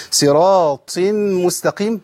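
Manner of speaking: slow صراط with a whispered, airy ط; deliberate mistake. Shown as a demonstration. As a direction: demonstrate the faulty breathy ط in صراط مستقيم. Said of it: "ده خطأ. أنا بجيب الخطأ".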